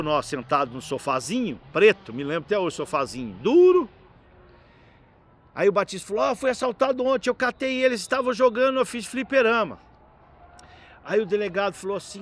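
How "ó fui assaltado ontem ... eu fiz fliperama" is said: higher-pitched retold accusation; pleading a case in a raised pitch; mock complaint. Robbed bar owner to police chief, higher-pitched accusing.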